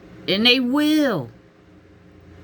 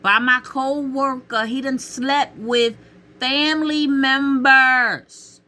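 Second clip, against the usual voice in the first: incredulous listing; 5 semitones higher than usual. Retold or imitated. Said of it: "I said".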